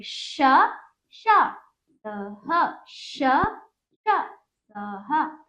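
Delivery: श pushed out short and sharp; quick sh drill. Shown as a demonstration. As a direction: say श quickly and forcefully. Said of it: "इसको हमें थोड़ा जोर से बोलना है".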